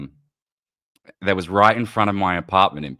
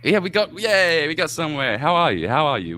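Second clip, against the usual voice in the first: high, loud, relieved welcome; delighted cheer; 9 semitones higher, 5 dB louder than usual. Real, not acted. Host to guest finally heard on the stream, delighted. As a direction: cheer that it finally works, voice raised.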